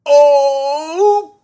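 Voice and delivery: loud high offended huff; Henry huffing. A narrator's reading. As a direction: blurt an indignant oh, psh. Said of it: "And Henry said".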